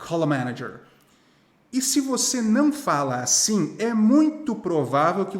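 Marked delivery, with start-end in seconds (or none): 0.1-0.8 "call a" joined as "calla", pitched low; low, linked "call a manager"; American linking. Shown as a demonstration. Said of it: "Eles vão falar".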